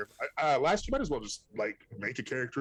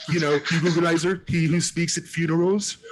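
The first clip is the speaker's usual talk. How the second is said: grand announcer; 7 semitones higher, 6 dB louder than usual. Pretend. Mock grand title.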